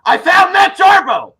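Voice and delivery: loud, slow, high announcement; excited call out. Real, not acted. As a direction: call it out with delight. Calls out spotting a friend.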